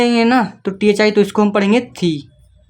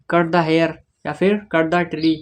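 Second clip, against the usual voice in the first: slow example; 3 semitones lower, 4 dB quieter, much slower than usual. Shown as a demonstration. Teacher gives slow English examples.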